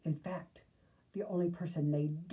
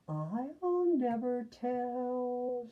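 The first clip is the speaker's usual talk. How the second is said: very slow, higher sweet singsong; sweet, slow secret-keeping lilt; 6 semitones higher, much slower than usual. Acted. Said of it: "she said in a sweet voice".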